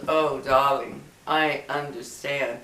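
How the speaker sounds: lightly imitated British gentleman; tender, with a hint of British accent; soft British accent. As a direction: gently mimic a soft-spoken British man. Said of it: "This guy had a very soft one".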